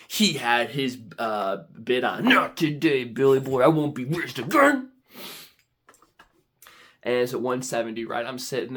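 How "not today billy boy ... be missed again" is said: lightly acted challenge to a rival; mock-heroic taunt, a touch louder; defiant taunt. Telling a rival bidder off, defiant. Acting out his defiant bid.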